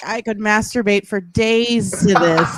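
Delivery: slow, drawn-out mock swoon; imitated lustful relish, drawn out; imitating swooning sister. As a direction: linger on it like a besotted sister. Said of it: "She's like".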